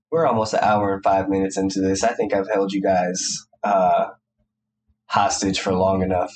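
congested, nasal voice. Real, not acted. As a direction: talk through a stuffy nose. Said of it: "this nasally voice you're hearing".

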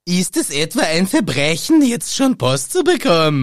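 lightly voiced audiobook Harry; Rufus Beck reading. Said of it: "in der Rufus Beck-Version". (leicht empörte Vorleser-Stimme)

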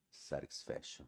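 very low, breathy seductive murmur; deep sexy voice. Pretend. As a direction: purr it out like a crooner. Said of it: "ó a vozona".

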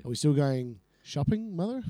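lightly voiced dutiful son; a hint of a henpecked son; Seymour Skinner. Son asking mother about shopping, lightly voiced dutiful son. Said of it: "Seymour Skinner and his mother".

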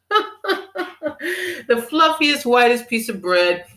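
laughing high through the words. Real, not acted. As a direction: crack up while saying it. Laughing while mocking bread choice.

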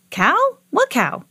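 put-on high, quick boyish questions; puzzled surprise. A narrator's reading. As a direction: ask in bafflement. Boy puzzled about the cow.

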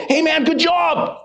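put-on high, drawn-out white American accent. Comic mimicking white people praising each other, white accent. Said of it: "That was my white accent".

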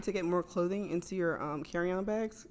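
talking between burps; burping. Real, not acted. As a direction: hold back a burp as you talk. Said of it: "excuse me, I keep burping".

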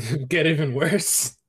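slowed, laughing retelling; laughing through it. Real, not acted. Laughing as he tells friends the fire got worse. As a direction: chuckle as you finish the story. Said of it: "and it caused it".

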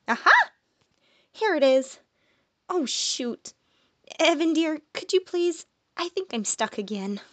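put-on bubbly girl digging through a bag; flustered girl. Malia asking Evan for help with her bag, flustered.

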